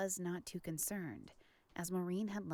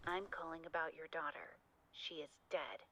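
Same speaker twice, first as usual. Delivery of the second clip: filtered like a call on a telephone; tinny talking telephone; 5 dB quieter than usual. Acted. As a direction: voice through a phone line. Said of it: "That kinda sounds like a phone to me".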